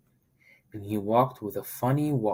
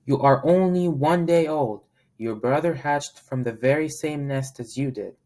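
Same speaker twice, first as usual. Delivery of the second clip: higher, louder firm scolding; stern voice; 4 semitones higher, 5 dB louder than usual. Acted. Mama Duck defending the new duckling, stern. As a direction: lay down the law to your child. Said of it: "in a stern voice".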